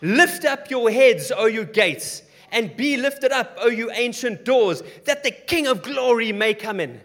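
slow, high, loud proclamation; proclaiming psalm. Acted. Saints quoting the psalm at the gates, loud and slow. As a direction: ring it out like a herald. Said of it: "They start quoting Psalm twenty-four".

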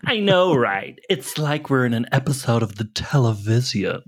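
put-on snarky Valley Girl teen chatter; Valley Girl mocking everything; Valley Girl accent. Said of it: "impossible to say in that accent".

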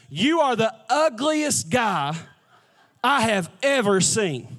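drawn-out mock verdict, pause midway; slow deliberate insult. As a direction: deliver the parrot's insult slowly, word by word. Parrot insults man in joke.

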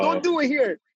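put-on old Jamaican man. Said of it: "old Jamaican guy, he's like".

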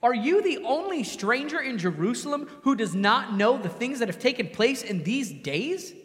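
lightly voiced scoff at a clueless stranger; incredulous disbelief. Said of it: "listen to the tone in which he speaks".

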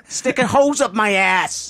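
Long Island accent. Shown as a demonstration. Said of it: "when you went off book".

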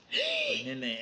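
put-on squeaky high baby-talk; mock baby voice. Teasing friend, mock baby voice. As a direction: pitch it way up like cooing at a baby.

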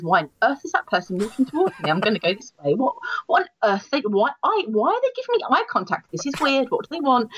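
quick, puzzled alarm, climbing in pitch; acted wary bewilderment at a stranger; suspicious inner thought. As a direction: play a flustered, suspicious Londoner. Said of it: "your immediate thought is".

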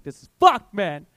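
1 panicked outburst. Retold or imitated. Panicking while tripping.

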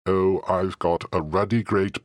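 tasty then dying. Retold or imitated. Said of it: "he exclaimed, and I'm reading this from the transcript".

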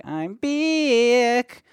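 squeaky high chipmunk voice. Retold or imitated. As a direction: pitch way up like a cartoon chipmunk. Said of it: "the super high-pitched Alvin and the Chipmunks voice".

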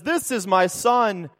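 booming voice. Acted. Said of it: "this booming voice comes from heaven and says".

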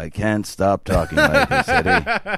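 slow, sliding up on the name; silly put-on voice. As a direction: keep the goofy voice going. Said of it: "Why are you talking like that?".

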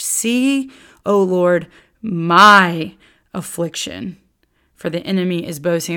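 lightly voiced grieving widow, pleading; Lady Zion's voice. Teacher reading Lady Zion's plea to the Lord, mildly mournful. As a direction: read it as the widow crying to God, understated. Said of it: "listen to the switch".

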